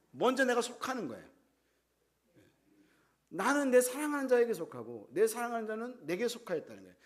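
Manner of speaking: ordinary talk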